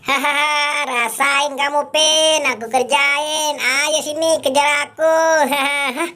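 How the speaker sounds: high, laughing mischievous taunt; gleeful taunting. Acted. Prankster daring Upin to chase him, gleeful taunting.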